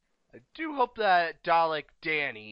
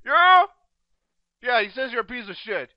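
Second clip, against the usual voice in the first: pretend phone call; 9 semitones higher, 9 dB louder than usual.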